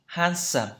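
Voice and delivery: handsome with a British open "a"; British pronunciation. Shown as a demonstration. Teacher echoing the British dictionary audio, British accent on handsome. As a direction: copy the British handsome, first vowel open. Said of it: "anh Anh trước này".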